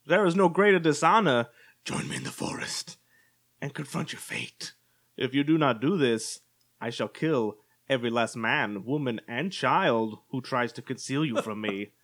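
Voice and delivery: lightly done Walken, odd pauses in the phrasing; a hint of Walken, pausing in odd spots; Christopher Walken impression. Rereading Voldemort's threat for his partner, a light Walken impression. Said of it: "as Christopher Walken".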